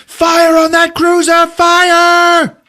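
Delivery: high, loud frantic command; shrill order. Retold or imitated. Hux screams at his crew to fire, frantic high yell.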